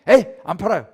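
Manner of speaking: loud, huffy "에이, 안 팔아요"; mock angry merchant. Offended vendor refusing a lowball buyer, loud and huffy. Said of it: "막 이렇게 해요".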